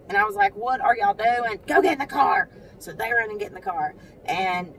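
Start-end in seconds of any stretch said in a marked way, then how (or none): 0.6-2.5 scolding mom. Retold or imitated. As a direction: raise your voice at the kids. Scolding her boys.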